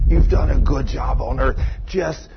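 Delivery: slow, quiet, half-whispered beckoning; soft luring voice. Retold or imitated. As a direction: coax him gently to let go. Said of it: "One of those beautiful voices is saying".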